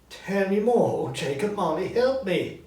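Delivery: high, loud slowed begging; pleading Scrooge. Acted. Scrooge pleading with Marley's ghost, high and loud. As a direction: beg for help.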